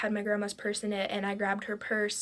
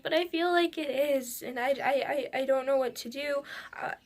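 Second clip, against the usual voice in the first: higher-pitched, stammering retold panic; freaking out; 4 semitones higher than usual. Retelling her apology to mom after the crash, mildly panicked. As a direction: imitate your own flustered apology, pitched up. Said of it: "I'm just, I'm freaking out".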